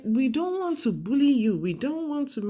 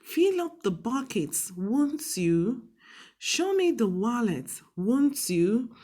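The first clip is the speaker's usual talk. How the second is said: polite command with falling tone on won't you; polite request. Shown as a demonstration. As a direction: ask nicely so they can't refuse. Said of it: "we are making it look more polite".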